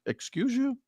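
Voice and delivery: high, indignant excuse you; mock affronted disbelief; incredulous. Retelling the agent, high and incredulous. Retold indignant reply at security.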